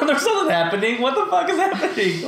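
high-pitched, freaked-out outburst; mock panic. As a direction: play at panicking in a haunted room. Imagines panicking alone in a spooky room.

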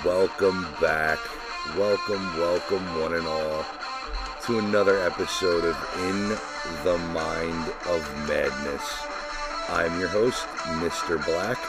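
showman host announcing over music; ringmaster. Acted. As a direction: welcome the crowd like a circus ringmaster. Podcast host ringmaster intro.

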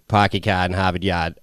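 lightly put-on Boston accent, r's dropped; a hint of imitation Boston. Shown as a demonstration. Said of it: "Whenever I try to do a Boston accent".

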